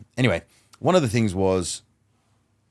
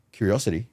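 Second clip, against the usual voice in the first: "Curiosity." repeated back with an interested questioning tune. Shown as a demonstration. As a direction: say "Curiosity." as if genuinely wondering. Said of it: "repeat their last few words back to them with curiosity".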